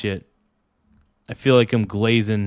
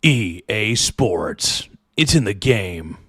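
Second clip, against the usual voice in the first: EA Sports announcer; 3 semitones lower than usual. Retold or imitated. Streamer nails the EA Sports intro for chat, booming. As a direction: stretch E A out, drop low on the game. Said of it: "got the E A Sports guy down?".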